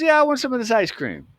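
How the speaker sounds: high-pitched cool-cat voice; cool dude. Retold or imitated. Cool dude greeting the new kid behind the counter, imitated high. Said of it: "he's a pretty cool, cool dude".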